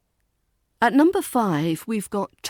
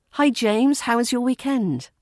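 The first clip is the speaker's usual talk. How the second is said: friendly greeting; 5 semitones higher, 3 dB louder than usual. Shown as a demonstration. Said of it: "Keep a friendly, smooth tone".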